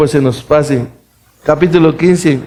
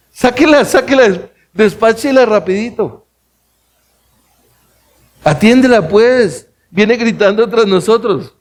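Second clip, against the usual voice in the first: higher, pushy and fed up; impatient disciples; 6 semitones higher than usual. Acted. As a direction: brush her off, get rid of her fast. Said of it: "le rogaban".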